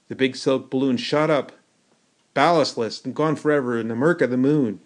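plain reading voice

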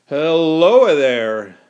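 long, drawn-out loud hail; shouted greeting. A narrator's reading. Boy greeting soldiers across the sea, shouting. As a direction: holler it across to strangers. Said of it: "I shouted".

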